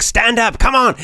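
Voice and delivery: high, bright urging to get up; cheerful push to stand; energetic coaxing. Shown as a demonstration. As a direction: coax them up with big energy. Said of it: "I'd be using energy".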